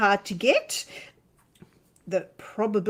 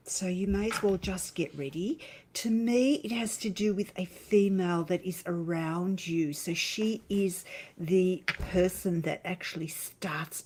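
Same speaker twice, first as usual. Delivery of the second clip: kindergarten teacher voice. Acted. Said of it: "She's put on her kindergarten teacher's voice".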